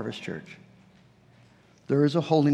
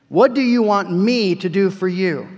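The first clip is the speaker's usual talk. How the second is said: loud, high, ringing question; emphatic retold question; 4 semitones higher, 7 dB louder than usual. Preacher booming Jesus' question to the congregation, loud and high. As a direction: ring it out to the hall. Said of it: "what Jesus said to him".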